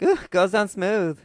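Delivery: drawn-out pleased sigh of a line; savoring drink. Retold or imitated. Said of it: "she's like".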